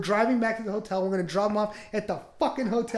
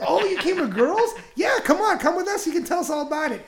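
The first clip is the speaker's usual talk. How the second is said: higher, louder hammed-up villain voice; cheesy movie villain; 8 semitones higher, 4 dB louder than usual. Imitating a creepy stranger inviting them along, hammed-up villain. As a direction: purr it like a bad Indiana Jones baddie. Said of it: "You sound worse than an Indiana Jones villain".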